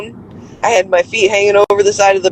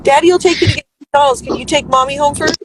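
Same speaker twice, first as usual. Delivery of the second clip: higher, quick and sweet; 6 semitones higher than usual. Real, not acted. Mother promises the child McDonald's, sweet and higher.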